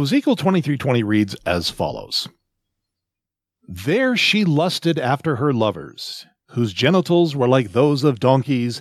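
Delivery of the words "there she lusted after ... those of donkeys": solemn scripture reading. Shown as a demonstration. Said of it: "and I quote".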